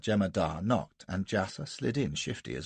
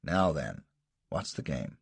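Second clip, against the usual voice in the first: hardened bark; 6 semitones lower, slower than usual. A narrator's reading. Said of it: "His voice hardened to a bark".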